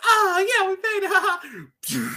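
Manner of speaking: high, loud cheer stretched out slow; mock cheer. Retelling the soldiers celebrating, high drawn-out mock cheer. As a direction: celebrate like soldiers after the raid. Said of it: "they were just like".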